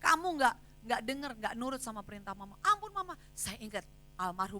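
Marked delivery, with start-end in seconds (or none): 0.0-2.6 high, loud scolding; mother lashing out at her disobedient daughter, loud and high; stern scolding mother. Retold or imitated. Mother scolding daughter while punishing. 2.6-3.2 put-on high pleading child's cry; child begging. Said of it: "sampai dia bilang".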